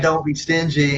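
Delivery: light, teasing, playful scolding; whimsical voice. Shown as a demonstration. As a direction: wag a finger, kidding around. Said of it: "I say with, with a little, uh, whimsical voice".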